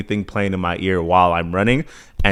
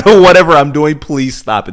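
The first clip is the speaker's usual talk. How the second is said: laughing plea; 6 semitones higher, 9 dB louder than usual. Retold or imitated. Body pleading, laughing.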